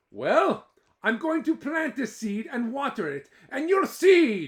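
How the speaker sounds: loud, high defiant retort. Acted. Jamie answering Eileen defiantly, loud and high. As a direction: stand your ground.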